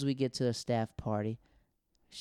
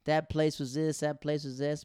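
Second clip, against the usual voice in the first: mock rant; 4 semitones higher, 4 dB louder, slower than usual. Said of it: "they're just like".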